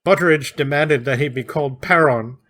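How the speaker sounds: mock German accent, B said as P; lightly done German accent with Paron for Baron. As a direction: imitate Winterfeld's German accent. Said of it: "he can't pronounce B's".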